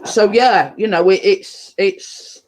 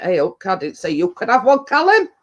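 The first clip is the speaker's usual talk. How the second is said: scolding. Real, not acted. Tells Callum off for taking one.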